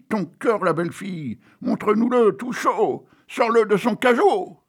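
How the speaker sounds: mock crowd yelling at the stage; crowd shouting. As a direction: bawl it like a rowdy crowd. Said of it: "les voilà qui crient".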